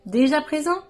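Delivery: measured recital of a poem, phrase by phrase; poem recitation. Acted. Sharing own poem on isolation with viewers, poem recitation. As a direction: recite it as verse, pausing between lines.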